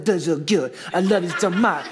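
put-on cooing baby talk that breaks into a laugh; playful baby-talk voice with a laugh. Shown as a demonstration. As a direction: coo at a baby. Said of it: "you just start in that voice".

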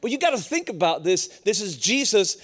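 ordinary talk

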